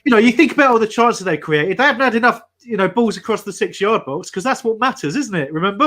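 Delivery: a hint of the old manager's earnest reasoning; Roy Hodgson impression. Mocking the manager to D R, mild Roy impression. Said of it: "put on my best Roy Hodgson, um, mindset".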